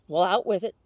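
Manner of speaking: loud, eager urging; impatient excited demand. A narrator's reading. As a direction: press for the news, almost bursting. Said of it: "feeling very excited".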